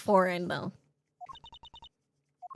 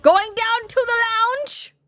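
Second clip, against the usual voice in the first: higher, lightly voiced insistent witness; a hint of a fussy witness; eager witness; 10 semitones higher, 5 dB louder than usual. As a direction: swear you saw it. Witness testifying in voiced role.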